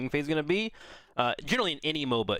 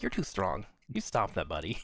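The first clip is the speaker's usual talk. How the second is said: mock mild scolding, light and buddy-like; 5 semitones lower, 4 dB quieter than usual. Playing the balance designer scolding a hero: mock scolding as the balance designer. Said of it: "Balance Designer just slapping heroes on the wrist".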